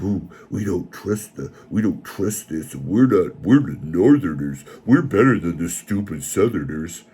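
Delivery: snooty mock voice. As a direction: parody smug elites, mildly. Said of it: "they're all like".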